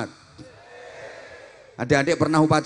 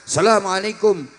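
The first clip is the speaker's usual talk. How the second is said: greeting on a raised pitch; high-pitched Arab-style greeting; 3 semitones higher, 3 dB louder than usual. Shown as a demonstration. Pupil greeting a teacher Arab-style, raised pitch. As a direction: lift the voice high as you greet. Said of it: "pakai nada tinggi".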